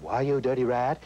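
lots of air over the vocal cords, tough-guy snarl; Jimmy Cagney. Shown as a demonstration. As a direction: play the breathy gangster. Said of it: "the breathy type voice, which Jimmy Cagney would have".

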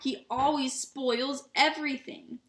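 mock-tearful complaint, stretched out; pretend sobbing. A narrator's reading. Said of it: "between two huge pretend sobs".

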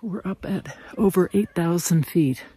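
out of breath. Real, not acted. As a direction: talk a little winded, breathing hard. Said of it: "so I'm a little out of breath".

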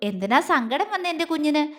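doting, gentle question; affectionate. Acted. Man soothing his sad beloved, affectionately. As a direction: coax her like a little one. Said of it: "അവനിൽ വാത്സല്യമായിരുന്നു".

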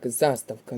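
заставка stressed on opening ЗА, drawn out; заставка as ЗА-ставка; stress on first syllable. Shown as a demonstration. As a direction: lean on ЗА in заставка. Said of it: "наголос на перший склад".

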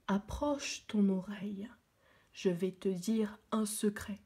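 chuchotement. Acted. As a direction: whisper it close to her ear. Baobab tells a secret. (Baobab chuchote son secret)

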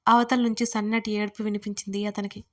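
plain reading voice

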